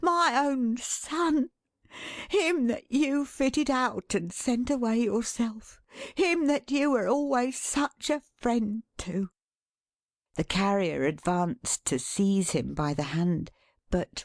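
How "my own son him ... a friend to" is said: lifted, proud father's voice; exulting. A narrator's reading. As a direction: show off your son in triumph. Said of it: "said Caleb exultingly".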